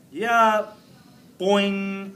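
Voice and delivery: excited reply. Acted.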